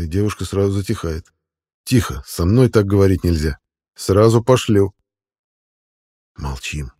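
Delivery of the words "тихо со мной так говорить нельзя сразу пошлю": firm, mildly forceful warning; stern warning. Acted. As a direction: lay down the rule sternly. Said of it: "говорю жёстко". (жёсткое предупреждение)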